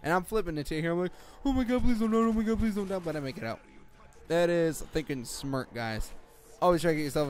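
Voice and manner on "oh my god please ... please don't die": high, louder pleading, sliding down; hammed-up frantic begging; mock panic. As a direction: beg for your life in a high mock wail. Acting out game panic.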